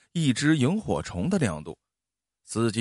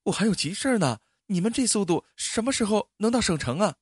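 higher, annoyed complaint; impatient anger; 9 semitones higher than usual. Acted. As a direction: scold them for crawling along. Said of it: "那姑娘火了". (姑娘嫌车太慢，提高声音发火)

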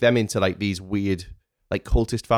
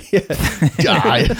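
loud; 4 semitones higher, 4 dB louder than usual. Pretend. Joke villain lines laughing.

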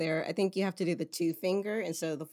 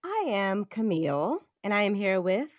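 flight attendant; 3 semitones higher than usual. Acted. Hosts' intro, flight attendant style.

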